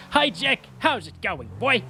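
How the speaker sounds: high sing-song hello to a dog; pet talk. Real, not acted. Gamer greeting his dog Jack in high pet-talk voice.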